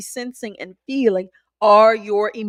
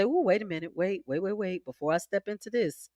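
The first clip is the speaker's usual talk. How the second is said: calm self-check; 2 semitones lower than usual. Shown as a demonstration. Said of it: "take a deep breath and say".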